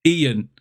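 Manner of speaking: Ian said as EE-an; two-syllable Ian. Shown as a demonstration. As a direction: give Ian two separate beats, EE-an. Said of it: "it is Ian".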